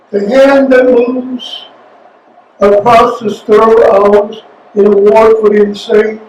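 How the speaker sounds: poetry reading. Acted. Reads his poem aloud.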